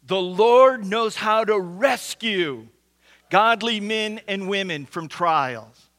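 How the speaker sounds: slow, loud congregational recital with "rescue" emphasized; stress on rescue. Shown as a demonstration. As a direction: say it all together, slow and loud, punching "rescue". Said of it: "repeat it with me and emphasize the word rescue".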